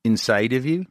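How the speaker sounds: Scottish attempt sliding slightly Irish; rising, amateur Scottish with an Irish lean; attempted Scottish accent. Host retrying for Scottish guest, Irish-tinged Scottish accent. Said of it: "You went a little to Ireland".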